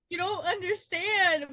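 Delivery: slow, half laughing, half crying; mock teary plea. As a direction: whine it through a laugh as if heartbroken. Crying over TikTok videos.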